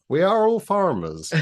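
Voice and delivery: put-on West Country accent. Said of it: "doing West Country accents".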